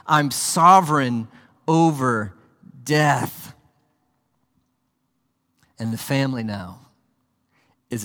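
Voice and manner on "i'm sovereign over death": louder, firm preaching of Jesus' words; proclaiming. Acted. Preacher voicing Jesus over death, loud and firm. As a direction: declare his sovereignty. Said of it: "His lordship over death itself".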